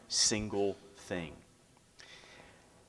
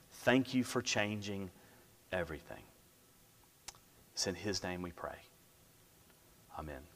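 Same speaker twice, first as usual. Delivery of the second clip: public prayer. Real, not acted. Pastor asking the Lord to bless his word, prayerful.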